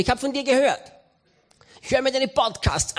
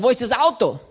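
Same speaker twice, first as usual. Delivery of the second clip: sharp, loud demand; demanding wife; 5 dB louder than usual. Retold or imitated. Wife confronting her husband, loud and sharp. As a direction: call out where the car went.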